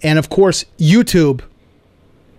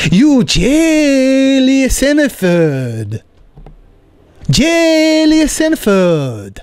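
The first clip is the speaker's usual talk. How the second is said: put-on very slow, higher Korean accent, insisting; Korean landlord accent; 8 semitones higher, much slower than usual. Landlord insists tenant envies Seinfeld, slow Korean accent. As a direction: stretch it out in a high Korean accent. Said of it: "He goes".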